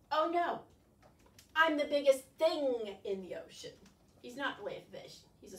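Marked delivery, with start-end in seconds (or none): 1.6-3.7 proud squid. Acted. Squid boasts.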